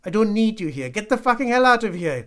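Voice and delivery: high, full-volume angry yelling; furious shout. A narrator's reading. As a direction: scream at him to get out. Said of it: "he shouted again".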